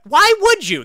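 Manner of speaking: very high, loud disbelief; incredulous high-pitched yell; exasperated outcry. Real, not acted. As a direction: cry it out, utterly baffled. Repeats baffled question, escalating.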